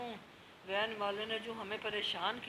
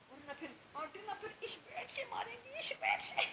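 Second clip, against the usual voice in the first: mock threat; 11 semitones higher, 3 dB quieter than usual.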